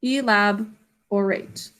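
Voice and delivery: elaborate said slowly; drawn-out teacher model; slow careful model. Shown as a demonstration. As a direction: model the word slowly for the class. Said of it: "the last word was elaborate".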